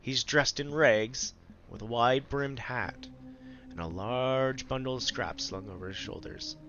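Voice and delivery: calm storyteller narration; story narration. A narrator's reading. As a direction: read it like a fantasy narrator. Narrates game scene.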